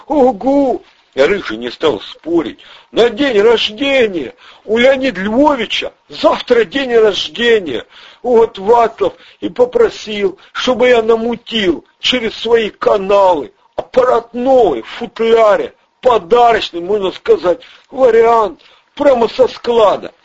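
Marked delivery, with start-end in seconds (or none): 0.1-0.8 high, jittery small-time crook; squeaky nervous crook voice; Ryzhy's voice. Acted. Ryzhy answers Andrey. 2.9-20.1 high, jittery small-time crook; squeaky nervous crook voice; Ryzhy's voice. Acted. Ryzhy explains the gift.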